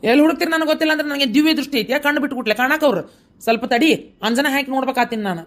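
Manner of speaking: exasperated retort. Acted. Husband snapping back at his worried wife, exasperated and fast. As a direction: throw her words back at her, annoyed.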